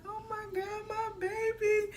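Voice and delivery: high, slow, mock-gushing "my baby"; high gushing friend. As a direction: gush like a delighted friend. Friend gushes over baby.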